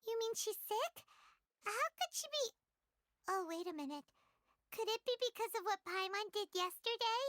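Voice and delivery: worried alarm. Acted. Paimon worried about Collei's illness.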